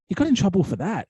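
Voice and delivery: high-pitched retold incredulity; disbelieving reaction. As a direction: imitate a colleague who can't believe it.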